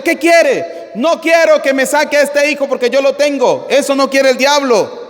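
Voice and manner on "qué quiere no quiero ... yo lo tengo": raised-pitch mock shout of the devil; devil's protesting shout. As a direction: protest like a devil refusing to give up his captive. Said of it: "el diablo se puso a gritar y le dijo".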